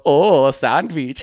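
put-on slow, stretched accented "Oh, a sandwich"; hammed-up coworker repeating an order; hacky Hassan. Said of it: "kind of a hacky Hassan".

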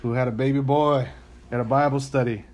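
put-on lightly preached retelling of the baby boy story; like a preacher. Shown as a demonstration. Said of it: "Let me say it like a preacher".

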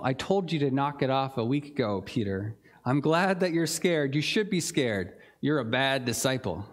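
a half-joking sarcastic telling-off; sarcastic scolding. Retold or imitated. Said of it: "sarcastically say".

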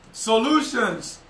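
"Solutions" said slowly and deliberately, falling; "Solutions" given slowly, each syllable weighted; slow emphasis. Shown as a demonstration.

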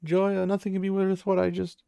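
imitated sobbing. Mother mourning the baby she left behind, mock sobbing. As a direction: wail it as a retold tearful lament. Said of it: "she just starts sobbing".

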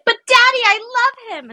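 very high, pleading daughter wail; high-pitched, melodramatic princess protest; Little Mermaid. Retold or imitated. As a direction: build it up into a lovestruck teen's plea. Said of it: "And then it's that crescendo".

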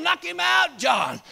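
drawn-out hollered cheer; hollering. Retold or imitated. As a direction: call it up the tree to urge him on. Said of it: "They started hollering".

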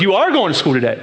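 stern parent, stress on "are"; firm parent tone. Retold or imitated. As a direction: lay down the law, "are" leaned on. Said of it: "then you change your tone of your voice".

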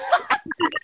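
high-pitched mock soup-sipping sound; imitated eating noise. Shown as a demonstration. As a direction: imitate a noisy sip of soup. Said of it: "yun mismo yung tunog".

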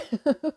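a small wet laugh through tears; embarrassed teary laugh. Real, not acted. Caught crying on her podcast, embarrassed teary laugh. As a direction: laugh it off mid-cry. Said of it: "I did not plan on crying".

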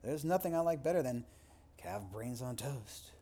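mock relish dripping with irony; sarcastic. Shown as a demonstration. Lecturer demoing sarcasm about calves' brains, mock relish. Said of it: "then say them sarcastically".

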